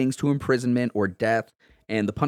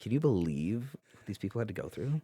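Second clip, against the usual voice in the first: effete northern liberal voice; 3 semitones lower, 10 dB quieter than usual. Pretend. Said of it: "effete, uh, northern liberal, uh, voice".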